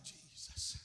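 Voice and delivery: barely audible plea; faint acted cry. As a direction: call the name faintly. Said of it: "And she's crying".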